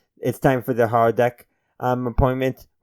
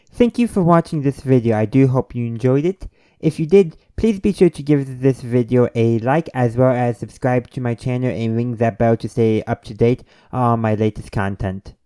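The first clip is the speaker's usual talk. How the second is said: lively, projected sign-off spiel; polished call to like and subscribe; video outro read; 4 dB louder than usual. Acted. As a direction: deliver an upbeat channel plug. Scripted channel outro after sign-off.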